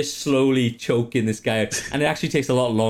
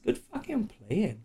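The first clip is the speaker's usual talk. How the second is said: mock praise voice; 10 semitones higher, 7 dB quieter than usual. Praising players in a put-on voice.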